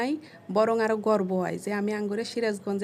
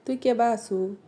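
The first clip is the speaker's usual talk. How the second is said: regional Sirajganj Bengali accent; Sirajganj dialect. Shown as a demonstration. Asking someone how they are, Sirajganj dialect. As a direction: ask it like a Sirajganj local. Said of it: "এটাকে আমরা বলি".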